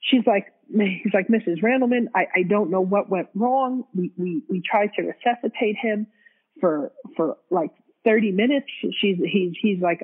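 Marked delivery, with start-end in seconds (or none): 1.3-8.7 imitated halting doctor, repeating words; stuttering. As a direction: stumble over starts while breaking bad news. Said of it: "he stutters a little".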